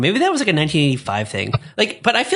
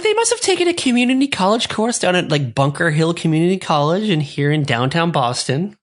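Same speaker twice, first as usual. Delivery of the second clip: Diane impression; 3 semitones higher than usual. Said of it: "She's like".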